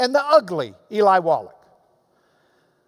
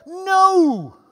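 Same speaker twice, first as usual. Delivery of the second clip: a louder, higher no; more emphatic no; 7 semitones higher, 4 dB louder than usual. Real, not acted. Preacher escalating his answer to the email, emphatic no. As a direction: raise the stakes on a single word. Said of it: "Let me be more emphatic".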